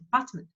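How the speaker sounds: Apartment with quick, swallowed weak vowels; fast, unheard schwa. Shown as a demonstration. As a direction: barely sound the unstressed vowels in Apartment. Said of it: "you don't hear it".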